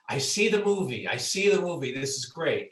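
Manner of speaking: a lightly hammed-up burst of enthusiasm; excited agent. Agent hearing the story pitched, imitated with excitement. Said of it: "and he goes".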